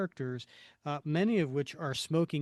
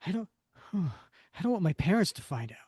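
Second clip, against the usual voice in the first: whispering; 3 semitones higher than usual. Acted. Kid confides secret fear.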